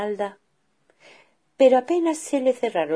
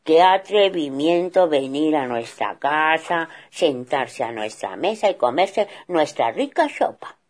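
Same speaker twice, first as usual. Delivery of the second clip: mild outrage; 5 dB louder than usual. Acted. Father bear outraged.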